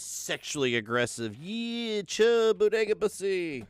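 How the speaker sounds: hammed-up loud outburst, rising high; mock-aggressive high holler; loud character. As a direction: belt it out as an over-the-top loud character. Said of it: "I'm playing a character, a loud character".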